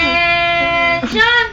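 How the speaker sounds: slow, sung-out command; drill sergeant. Pretend. Commanding a pet to stand.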